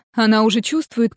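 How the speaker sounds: ordinary delivery, nothing marked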